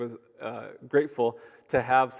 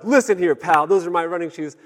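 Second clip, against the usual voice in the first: tough guy; 5 semitones higher, 8 dB louder than usual. Retold or imitated. Imagined tough confrontation.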